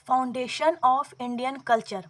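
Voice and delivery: the title stretched word by word; slow title reading. Shown as a demonstration. Teacher announces the next book to students, slow and deliberate. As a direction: read it slowly so students can note it down.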